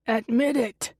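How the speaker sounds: muted booming yell, read by a narrator. A narrator's reading. Voice from inside the house interrupting, booming yell. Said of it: "a booming voice yells".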